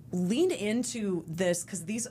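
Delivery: slow, unvoiced whispered advice; hushed self-coaching whisper. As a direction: whisper it like a secret tip to yourself. Retold advice to her younger self.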